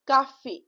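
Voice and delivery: cafe in two syllables, "ka-fay"; cafe with acute accent. Shown as a demonstration. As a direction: end cafe on a sounded é. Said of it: "the pronunciation will come out as".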